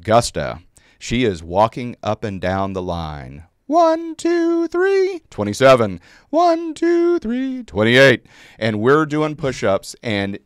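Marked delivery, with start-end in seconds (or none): 3.7-8.2 put-on very high, eager little-girl count. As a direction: call the reps with gusto like a small sergeant. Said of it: "little girl, high-pitched voice".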